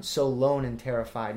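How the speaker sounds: "lone" as one syllable, no leading "a"; "so lone and terrified" in strict meter; clipped word form. Shown as a demonstration. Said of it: "not "so alone and terrified".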